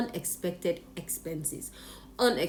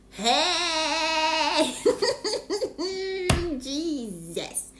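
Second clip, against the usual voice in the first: laugh-cry at her bad luck; 11 semitones higher, much slower than usual. Real, not acted. Vlogger reacting to the company's threatening email, laughing wail.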